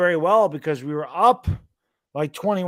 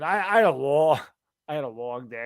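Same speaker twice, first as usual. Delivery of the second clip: usual speaking voice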